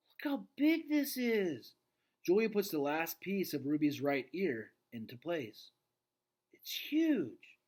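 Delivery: put-on girl marveling at the giant painting, amazed; amazed child. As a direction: marvel like a kid.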